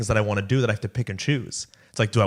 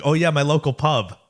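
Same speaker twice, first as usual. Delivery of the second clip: lightly put-on British accent, a bit higher; mock British pub-goer; 6 semitones higher, 4 dB louder than usual. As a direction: play a Brit chatting about the local, British accent. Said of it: "I feel like, like, a Brit".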